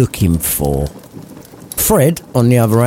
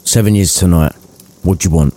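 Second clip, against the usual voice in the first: deadpan. Acted. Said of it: "deadpan as you like".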